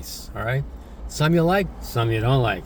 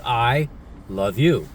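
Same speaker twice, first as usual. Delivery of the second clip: slow tender I love you; 2 semitones lower, slower than usual. Shown as a demonstration. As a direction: say it slow and gentle, like you mean it. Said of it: "many ways of saying those three words".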